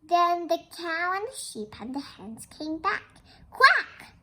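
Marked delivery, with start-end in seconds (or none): 3.5-4.1 loud, high duck quack; squawky duck enquiry; questioning quack. Acted. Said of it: "asked the duck".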